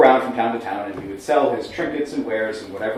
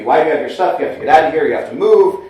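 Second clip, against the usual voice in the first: retold angry yelling; 3 semitones higher, 5 dB louder, faster than usual. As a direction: imitate an irate landlord with mild force. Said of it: "he starts yelling at me".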